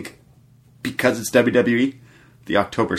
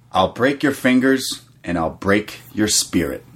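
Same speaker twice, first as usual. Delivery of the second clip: quoting Pete Dunne. Retold or imitated. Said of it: "he ends with".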